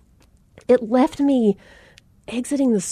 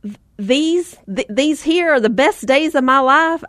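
incredulous; 3 semitones higher than usual. Retold or imitated. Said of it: "I thought".

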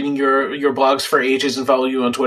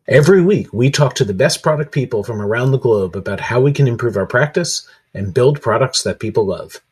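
lightly polished presenter's read; podcast sponsor read; 6 semitones lower than usual. Acted. Host introduces the podcast's sponsor to listeners, announcer read. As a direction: deliver it as a show intro.

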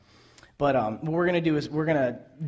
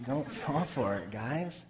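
laughing; 6 dB quieter, slower than usual. Real, not acted. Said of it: "laughing warning".

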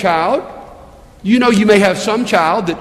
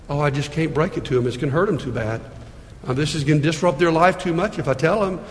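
much lower and softer, hesitant doctor; timid doctor; 5 semitones lower, 6 dB quieter, faster than usual. Pretend. Pastor voices a doctor afraid to share bad news, low and soft. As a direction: mumble it like a doctor who can't say it. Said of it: "would you want him to be too loving to tell you".

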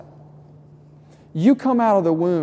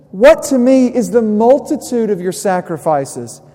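higher, louder indignant divine rebuke; voice of God; 4 semitones higher, 6 dB louder than usual. Acted. Preacher voicing God rebuking empty sacrifices, loud. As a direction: thunder it as an exasperated God. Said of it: "He says".

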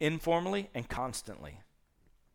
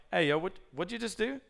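alarmed prophet; 6 semitones higher, faster than usual. Retold or imitated. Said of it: "Isaiah's like".

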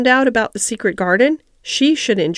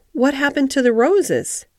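higher opening, keen question; eagerly interested; 5 semitones higher than usual. Acted. Mary asks the gardener about the roses, more interested than ever. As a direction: ask with growing interest. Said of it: "more interested than ever".

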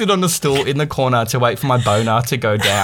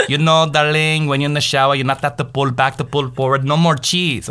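lightly hammed-up explaining mother; higher, sing-song imitation of mum; imitated mother; 3 semitones higher than usual. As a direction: play a mother cheerfully explaining to her boy. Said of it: "And she's like".

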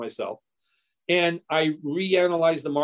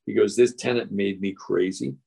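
put-on much lower, gruff old retired broker; low mock old-man voice; 7 semitones lower than usual. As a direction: drop the voice low as the grumpy old seller. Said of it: "he says".

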